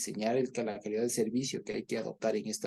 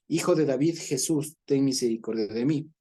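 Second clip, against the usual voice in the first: louder pleading call for mercy; crying out; 2 semitones higher, 5 dB louder than usual. Acted. Blind beggar cries out to Jesus from roadside, loud plea. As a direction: call out to Jesus over the crowd. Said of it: "comenzó a dar voces".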